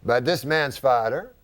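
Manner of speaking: put-on slow, deliberate French-accented riddle, sinking in pitch; French-Canadian uncle. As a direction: pause portentously between phrases in a French accent. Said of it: "That's how he talks".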